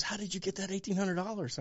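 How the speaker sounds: lightly acted disbelief; retold shock. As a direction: imitate her stunned question. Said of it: "She turned around in shock".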